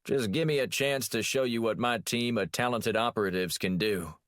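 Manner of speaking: a touch of a blustering Texas president; mild Texas accent, mimicking his boss. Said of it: "mimicking his boss".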